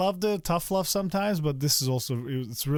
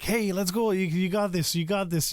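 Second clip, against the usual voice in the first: cheering from the sidelines; 5 semitones higher than usual. Pretend. Dad at his son's sparring match, pretend cheering. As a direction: pump up a kid from the sidelines. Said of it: "like, start yelling".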